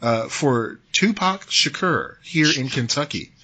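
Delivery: put-on reading the governor's quote in a light Kentucky accent. Quoting the Kentucky governor on the fake claim, in a light Kentucky accent. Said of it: "I said it like a Kentuckian would".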